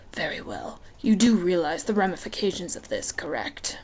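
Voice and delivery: amused, lazy menace, half whispered; lightly voiced Hades.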